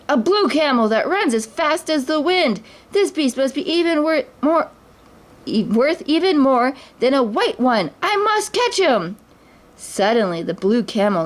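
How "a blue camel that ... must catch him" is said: much higher, greedy excitement; can't believe his luck; greedy exclaim. A narrator's reading. The thief spots the blue camel, greedily exclaiming. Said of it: "The thief exclaimed".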